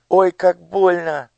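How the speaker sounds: high, frightened cries; a hurt child begging; pained pleading. Acted. Elo in pain. (жалобная мольба)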